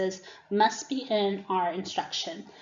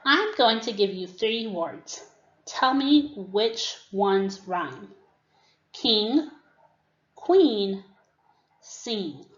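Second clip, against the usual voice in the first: teacher voice; slower than usual. Shown as a demonstration. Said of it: "if I'm the teacher, I could say".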